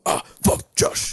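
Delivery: whispered. Acted. Chant fading to whisper.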